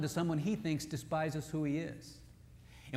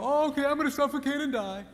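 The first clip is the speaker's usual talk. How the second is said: high, mock whiny wife voice; 8 semitones higher, 5 dB louder than usual. Wife mocking giving in, in a high whiny voice. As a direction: ham up a wife pretending to give in.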